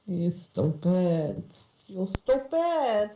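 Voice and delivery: slow, stretched mock insult; playful slow jibe; drawn-out teasing.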